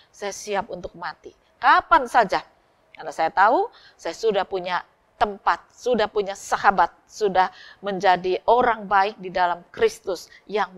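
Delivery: loud, fervent testimony of being saved; newly forgiven sinner declaring his faith aloud; joyful declaration. Acted. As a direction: proclaim it like a man set free. Forgiven man declares readiness.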